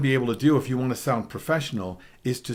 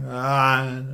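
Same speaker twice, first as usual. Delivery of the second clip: round tone ah; 3 dB louder than usual. Shown as a demonstration. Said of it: "'cause you'll hear".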